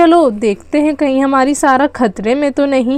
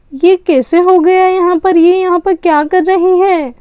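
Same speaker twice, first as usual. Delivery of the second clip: higher and a bit louder, scandalized; can't believe what she's seeing; a raised, shocked outburst; shocked surprise; 3 semitones higher, 3 dB louder than usual. Acted. Spotting Sara with a boy.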